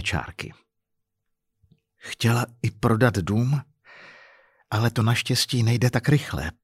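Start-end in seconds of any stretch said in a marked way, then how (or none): 2.0-6.5 understated, toneless delivery; colourless voice. Acted. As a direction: add it drained of feeling. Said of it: "dodala bezbarvým hlasem její sestra".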